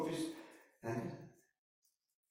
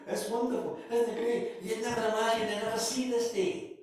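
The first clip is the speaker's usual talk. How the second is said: mock delight; 9 semitones higher, 3 dB louder than usual. Mock delight of freed Israelites.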